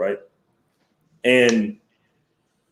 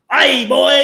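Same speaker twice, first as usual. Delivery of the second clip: much higher, put-on voice of a hearty northern dude; Irish-sounding Canadian guy; 13 semitones higher, 5 dB louder than usual. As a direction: mimic the Canadian with an Irish lilt. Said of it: "But he talks like this".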